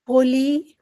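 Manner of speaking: gently voiced teacher calling a child; understated soothing tone; soft, soothing call. A narrator's reading. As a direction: call the name kindly, lightly rising. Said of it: "voice was so soft and soothing".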